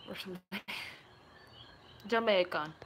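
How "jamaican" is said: put-on Jamaican pronunciation; lightly imitated Jamaican accent. Shown as a demonstration. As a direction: say it with a mock Jamaican lilt. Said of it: "Can you do a Jamaican accent?".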